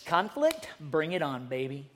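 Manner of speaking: mock tough guy itching for conflict; eager fighter. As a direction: relish the fight, cool and cocky. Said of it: "another kind of you".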